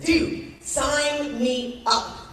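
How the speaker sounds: eager shout of dude, then a slow sign me up; mock-excited sign-up. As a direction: jump at the offer, thrilled. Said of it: "I was so excited".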